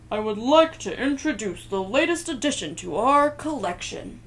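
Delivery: loud formal announcing; formal curator. Acted. Curator presenting the new exhibit, loud and formal. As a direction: announce it to the crowd.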